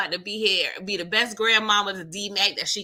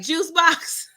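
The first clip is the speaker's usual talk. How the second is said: higher, sing-song question; lightly voiced motherly offer; a hint of a doting grandma; mock sweet offer; 7 semitones higher, 4 dB louder than usual. Kate offering Tariq a drink.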